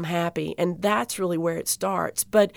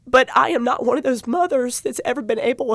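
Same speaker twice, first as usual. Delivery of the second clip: choked up; 3 semitones higher than usual. Real, not acted. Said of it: "I get so choked up every single time".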